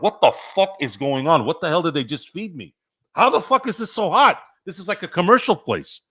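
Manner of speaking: mock panic building to a high squeak on hot; panicked inner voice. To himself after the wing's heat, a mock panic rising in pitch. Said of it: "like, in my head".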